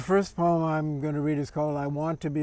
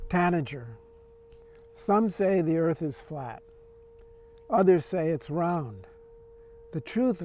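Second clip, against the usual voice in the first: measured recital with pauses at line breaks; poem reading. Acted. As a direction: read it as verse, phrase by phrase. Reads own poem aloud.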